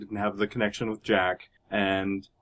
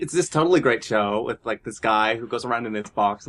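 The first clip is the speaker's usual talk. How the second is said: gushing fangirl. Retold or imitated. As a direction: gush like an excited fan. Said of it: "as a fangirl".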